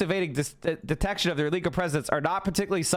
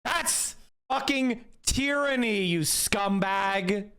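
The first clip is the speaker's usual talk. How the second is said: indignant rant; 3 semitones higher, much slower than usual. Real, not acted. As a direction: spit out the insult. Ranting after acted stop scene.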